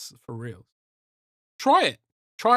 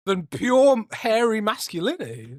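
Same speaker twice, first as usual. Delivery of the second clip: laughing; 6 semitones higher, 4 dB louder than usual. Real, not acted. Laughing through the punchline.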